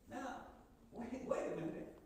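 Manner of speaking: ordinary delivery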